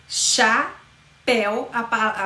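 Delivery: "Chapéu" very slowly, split cha / péu; drawn-out "Chapéu", pause before the final péu; syllable by syllable. Shown as a demonstration. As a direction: break "Chapéu" in two, keeping éu together. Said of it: "eu não separo o E e o U".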